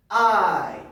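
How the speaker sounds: "I" said loud and drawn out for learners; model for repetition. Shown as a demonstration. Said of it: "Please repeat after me".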